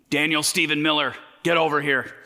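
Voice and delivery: lightly voiced stern parent calling. Parent summoning a child in trouble, mild stern call. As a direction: call the kid in like an annoyed parent. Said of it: "your parents use your full name".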